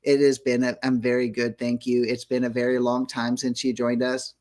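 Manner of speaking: stiff monotone robot. Pretend. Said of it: "why are we talking like robots".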